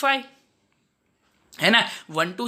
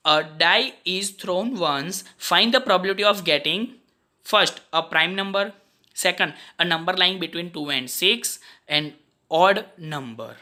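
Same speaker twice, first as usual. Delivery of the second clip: slow problem reading; much slower than usual. Acted. Teacher reading the exam question to a student, slow and even. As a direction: read the question aloud slowly and evenly.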